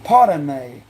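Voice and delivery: drawn-out overseas-accent imitation of "Pardon me"; put-on accent from across the seas; imitated overseas accent. Shown as a demonstration. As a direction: try their foreign accent on "Pardon me". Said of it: "Like how they say that?".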